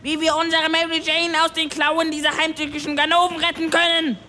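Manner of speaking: fed-up scolding in a high, strained pitch; furious. Acted. Klaus scolds the crybaby from the mast, high angry rant. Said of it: "Er war stinksauer".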